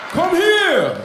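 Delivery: a lightly voiced excited Tracy Morgan, calling him over with a laugh; eager, laughing summons. Comedian imitating Tracy Morgan calling him over. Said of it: "He was like".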